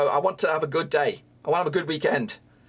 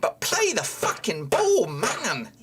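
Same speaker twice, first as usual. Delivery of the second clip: higher, slow exasperated rant; angry outburst; 4 semitones higher, slower than usual. Real, not acted. Fan venting anger at the team. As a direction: spit it out in frustration. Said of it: "I'm angry".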